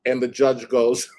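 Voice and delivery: ordinary talk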